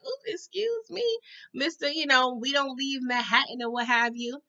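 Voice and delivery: high mock-offended excuse me; sassy comeback. Vlogger talking back to the complaining family, sassy. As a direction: clap back with attitude, starting high. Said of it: "I was like".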